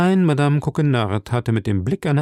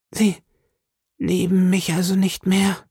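drawn out and sad; 9 semitones higher than usual. A narrator's reading. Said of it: "gedehnt und traurig".

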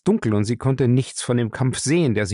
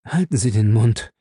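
snapping; 4 dB louder than usual. Acted. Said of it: "fuhr Julius ihn an".

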